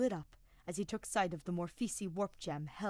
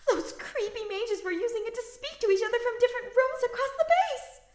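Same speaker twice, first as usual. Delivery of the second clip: put-on high nervous girl; 11 dB louder than usual. Bernadetta explaining loudly.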